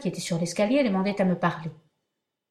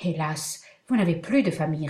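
sorrowful; 3 semitones lower than usual. Acted. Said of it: "avec un accent de douleur".

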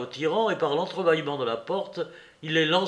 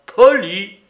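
outraged echo; 6 semitones higher, 14 dB louder than usual. Acted. Soupe echoes outraged.

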